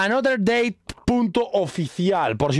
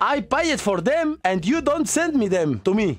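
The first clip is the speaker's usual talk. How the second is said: mock threat; 6 semitones higher than usual. Video message threatening Tyler.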